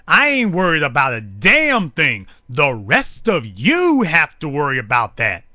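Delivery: a hint of a smug insider; boastful mock Ray Lewis. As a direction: lightly ham up a gloating star. Mocking Ray's boastful attitude.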